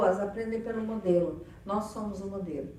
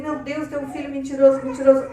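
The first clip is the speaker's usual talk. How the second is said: louder, appalled exclamation; dismayed parent; 3 semitones higher, 10 dB louder than usual. Retold or imitated. Parent despairs aloud over a lying son. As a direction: lament it loudly.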